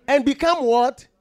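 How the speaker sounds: repeated prompt. Real, not acted. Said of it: "repeated prompt".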